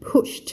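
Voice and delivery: PUSHED said as "pusht". Shown as a demonstration. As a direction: end PUSHED on a T sound. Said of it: "ลงท้ายด้วย E D เป็น T".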